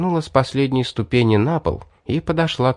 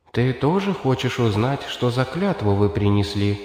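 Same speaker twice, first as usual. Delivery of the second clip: calm female voice; 2 semitones higher, 4 dB quieter than usual. Acted. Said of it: "спокойный женский голос".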